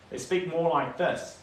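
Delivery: light mock Australian accent, up in the nose; a quick playful Aussie impression. Shown as a demonstration. Kiwi painter imitates Australians for chat, mock Aussie accent. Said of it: "Aussies sound more like they're in their nose".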